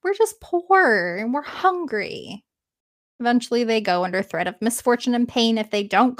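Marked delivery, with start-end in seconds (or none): 0.0-2.4 mock whiny slow plea; half-hearted whining; whining complaint. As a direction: whine it like put-upon boys. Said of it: "the boys are whining and complaining".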